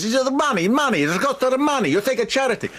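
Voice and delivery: retold screaming. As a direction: rant at the couple like the raging owner. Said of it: "after all this screaming".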